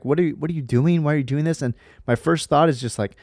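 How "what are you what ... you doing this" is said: replaying the scolding, a touch higher and heated; confronting the lying kid with mild frustration; mock angry dad. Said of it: "I'm mad".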